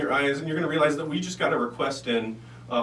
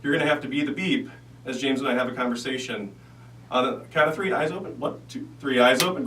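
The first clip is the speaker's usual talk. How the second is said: hypnotist voice. Acted. Hypnotist guiding trance.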